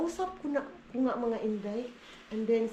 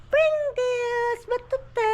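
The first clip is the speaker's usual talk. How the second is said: loud, much higher call across the room; 13 semitones higher, 7 dB louder, much slower than usual. Real, not acted. Mother calls out the snack name to be heard, loud and high. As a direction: shout it so they hear. Ha? calling to someone.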